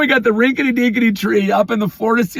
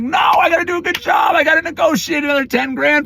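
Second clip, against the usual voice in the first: raised voice to clients; determined insistence; 6 semitones higher than usual. Retold or imitated. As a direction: push back hard.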